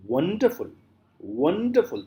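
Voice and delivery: "wonderful" said carefully in three beats; demonstrated pronunciation. Shown as a demonstration. Teacher showing three syllables, careful demonstration. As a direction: model "wonderful" for counting. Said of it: "When you say".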